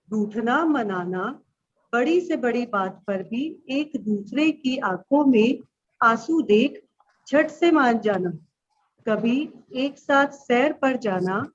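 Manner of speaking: slow, measured verse with pauses between phrases; poem recitation. Acted. Teacher reciting her childhood sibling poem to pupils, slow recitation. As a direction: recite line by line, drawing out the words.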